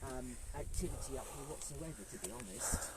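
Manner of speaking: panting after climbing stairs; breathless, catching breath between words. Real, not acted. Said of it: "I'm getting out of breath".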